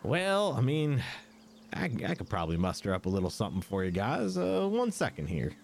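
put-on folksy Southern-style accent; lightly put-on Southern twang; tavern keeper's accent. Tavern keeper offering a reward, folksy Southern accent. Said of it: "trying to do the accent".

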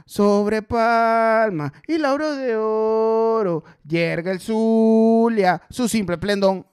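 lento y fuerte, recitando el himno; declámalo marcando cada palabra; himno recitado. Shown as a demonstration. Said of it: "Ahí yo lo digo rápido". (recitado del himno, algo más fuerte)

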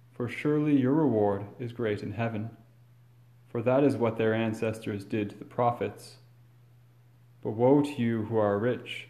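measured, solemn proclamation; formal gospel reading. Acted. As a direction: read it like scripture at Mass.

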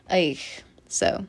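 breathy whispered aside. Real, not acted. Whispering an aside to her viewers. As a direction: drop to a whisper.

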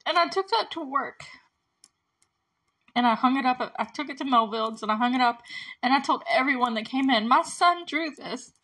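retold mother's pride, close to tears; real choked-up voice lifting at the end; trying not to cry. Real, not acted. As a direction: push through the quote without crying. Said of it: "I'm trying not to cry".

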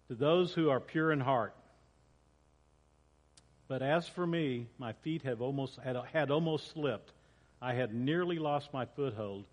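measured, solemn reading of a psalm; scripture reading. Acted. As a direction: read the psalm to the congregation with gravity. Pastor reads Psalm aloud.

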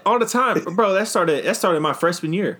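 high, animated exclamation; excited. Real, not acted. Player excitedly answering about angry fan messages. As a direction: burst out with it.

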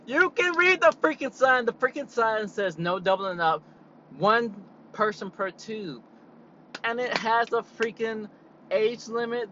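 loud, high, fed-up ranting; exasperated rant. Real, not acted. Venting about a rule-breaking customer, loud exasperated rant. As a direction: vent at the rude customer, voice up.

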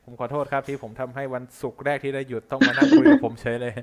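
laughing through the words; laughing apology. Real, not acted. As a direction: apologize while chuckling.

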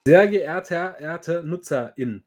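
stiff, polite form-letter tone; formal customer service voice. Pretend. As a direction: read it like a canned company reply. Mocks a canned company reply.

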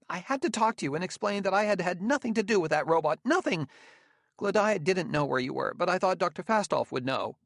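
high, urgent Spacer voice; agitated Spacer. A narrator's reading. Gramianus clearing himself to Bailey over the robot, agitated.

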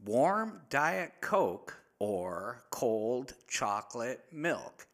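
lightly imitated French Canadian accent, slow; a hint of a French accent, slowly relayed. English-speaking French gal quoted.

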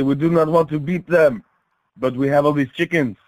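lightly voiced French planner; mock French accent. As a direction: reason it out in a put-on French accent. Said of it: "Only the French would think".

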